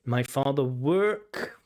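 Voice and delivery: slow mock echo of "My father work"; repeating the error. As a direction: echo the mistake back slowly. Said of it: "this is just present simple".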